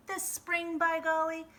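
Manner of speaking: high, loud eager exclamation; excited farmer. Acted. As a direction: burst out with glee. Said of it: "said Mister McGreely".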